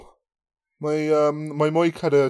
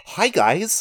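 lightly put-on Black accent, pitched up; higher attempt at a Black accent; mock Black accent; 6 semitones higher than usual. Shown as a demonstration. Podcaster trying accents, mock Black accent. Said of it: "What's a black man's accent?".

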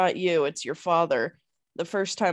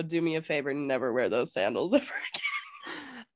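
quiet whisper of an order, softer and lower; whispering a warning not to wear the sandals; hushed quote; 5 semitones lower, 6 dB quieter than usual. Retold or imitated. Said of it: "I go".

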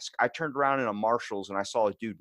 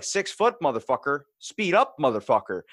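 higher, mocking echo of the insult; mocking throw-back; 4 semitones higher, 3 dB louder than usual. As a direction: toss "Six foot, motherfucker" back much higher and a bit louder. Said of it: "and I was like".

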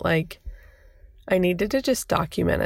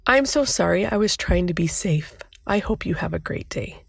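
genuine, nice. Retold or imitated. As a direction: say it kindly, as a genuine apology. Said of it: "I said it genuine. I tried to say it nice".

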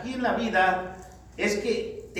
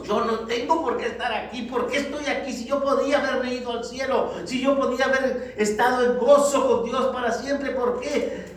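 higher-pitched, protesting self-reproach; autorreproche; 5 semitones higher, 4 dB louder than usual. Acted. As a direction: reproach yourself, asking why you ended up here. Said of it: "vamos a estar reprochándonos". (autorreproche en tono agudo, como protesta)

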